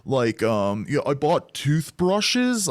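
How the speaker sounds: mock ditzy sketch girl; airy valley-girl parody. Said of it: "Who talks like that?".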